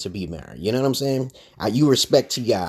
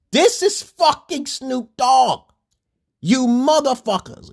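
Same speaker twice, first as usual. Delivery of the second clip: very slow, louder, much higher, fucking punched; slow, louder insistent repeat with fucking hammered; louder emphasis; 14 semitones higher, 5 dB louder, slower than usual. Real, not acted. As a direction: drive it home, even slower and louder. Ranting, hammering a point.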